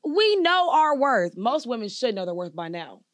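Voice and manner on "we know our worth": slow and louder; emphatic. Real, not acted. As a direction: lean hard on every word. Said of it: "emphatic retort".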